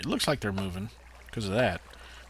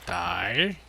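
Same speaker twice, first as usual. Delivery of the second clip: angry shout; 9 semitones higher, 6 dB louder than usual. Real, not acted. Killing a mob in game.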